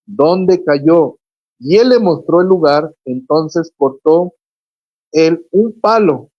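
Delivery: scripture read aloud with deliberate pauses; lectura bíblica. Acted. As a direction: read the passage out emphatically, phrase by phrase. Reads a Bible passage aloud. (lectura bíblica solemne y pausada)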